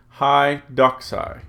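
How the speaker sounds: slow "hi doxai", stress on DOX; stress on first syllable. Shown as a demonstration. Teacher reading Greek by the accent mark, "doxai" stressed up front. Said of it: "keep the accent where that accent mark is".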